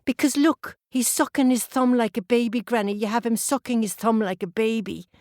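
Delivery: put-on a girl telling granny the statue looks silly; indignant little girl. Girl points out thumb-sucking statue.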